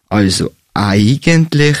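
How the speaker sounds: drawn-out hesitation. Acted. Drawn-out start before being cut off.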